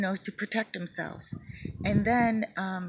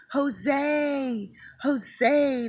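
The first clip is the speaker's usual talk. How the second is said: higher, louder call of the name; 7 semitones higher, 5 dB louder than usual. Retold or imitated. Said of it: "Wouldn't you hear him say".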